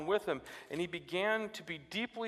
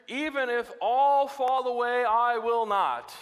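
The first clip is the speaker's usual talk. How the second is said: slow, loud boastful vow; drawn out, chest puffed like Peter; proud Peter; 6 semitones higher, 7 dB louder, slower than usual. Retold or imitated. Preacher voicing Peter's boast to Jesus, loud and slow. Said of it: "Peter declared".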